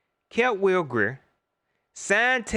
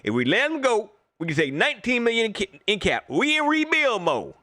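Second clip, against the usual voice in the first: raised, lightly mocking voice of the fans; mocking the fans' argument; 4 semitones higher than usual. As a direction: parrot the fans' cap logic a bit higher. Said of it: "That's what everybody was saying".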